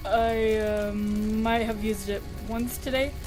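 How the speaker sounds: hesitant, guilty confession; sheepish admission. Acted. Patient admitting a slip, sheepish. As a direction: trail off as if caught out. Sans admits using magic.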